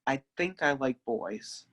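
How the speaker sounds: confessing softly to grandma; soft whisper. Retold or imitated. To grandma, confessing in a soft whisper. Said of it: "in a whisper".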